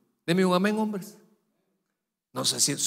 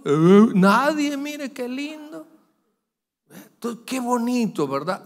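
mock pious sweetness; 8 semitones higher, 6 dB louder, slower than usual. Mocking churchgoers' fake piety.

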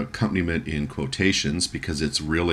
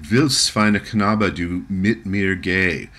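Elf King; 3 dB louder, slower than usual. Retold or imitated. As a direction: coax the boy, slow and sweet. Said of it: "we hear the Elf King again".

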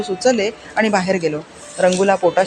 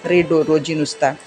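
a hint of a furious, grief-maddened mother; angry mother. Mother scolds her son while the baby cries, angry. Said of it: "आई रागवून दुःख संतापने वेडी होऊन बोलत होती".

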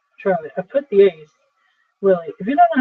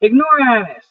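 angry; 4 semitones higher, 3 dB louder than usual. Acted. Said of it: "slamming the door after him".

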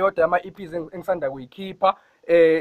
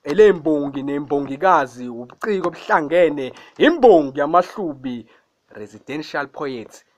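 poem recitation. Acted. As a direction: recite it like an imbongi, chanting the refrain. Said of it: "angeke nginishayele i-acapella yayo".

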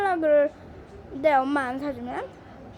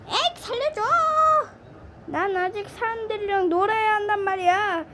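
high, teary begging as a naughty toy; whiny crying plea; 4 semitones higher than usual. Pretend. Toy pleading with the host, mock crying. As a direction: beg not to be put away, half crying.

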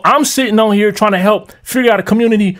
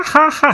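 mock laugh; 7 semitones higher than usual. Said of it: "extra emphasis on ha".

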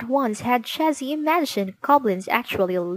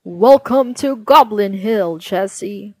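goblin greeting; 7 dB louder than usual. Acted.

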